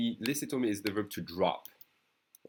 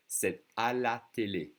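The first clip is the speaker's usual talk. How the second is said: slow careful demo; 2 semitones higher than usual. Shown as a demonstration. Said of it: "If I say it slowly".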